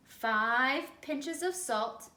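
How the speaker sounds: very slow, drawn-out gruff command; slow varmint order. Acted. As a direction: spell out each word like a lazy boss. Varmint giving recipe.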